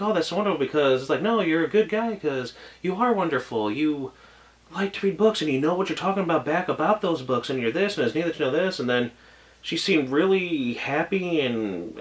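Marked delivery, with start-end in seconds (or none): 0.0-8.8 higher, lightly voiced girlish praise; a hint of a sweet girl gushing. Retelling the girl praising him, lightly voiced girlish. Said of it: "She's like".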